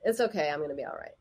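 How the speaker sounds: low, quick, perfunctory reassurance; unconvincing self-reassurance. Retold or imitated. Woman reassuring herself without it helping, perfunctory. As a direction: rush through the comfort without meaning it. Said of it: "that's how she said it".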